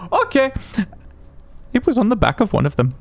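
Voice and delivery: put-on Swedish accent. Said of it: "Sorry, my accent is terrible".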